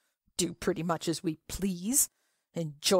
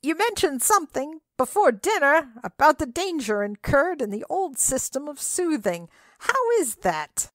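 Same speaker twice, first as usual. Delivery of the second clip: much higher, louder scream over the din; 9 semitones higher, 4 dB louder than usual. Acted. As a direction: yell it into his ear. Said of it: "screaming in his ear".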